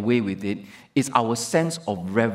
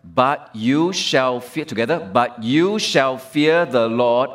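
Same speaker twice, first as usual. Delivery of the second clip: slow, louder unison-style reading; congregational reading; 3 dB louder, slower than usual. Shown as a demonstration. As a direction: lead the congregation, slow and loud. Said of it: "read this with me, together".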